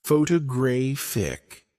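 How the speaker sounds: "Photographic" with the weight on "graph"; third-syllable stress. Shown as a demonstration. Teacher giving learners an example, third-syllable stress on "Photographic". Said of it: "stress on the third syllable".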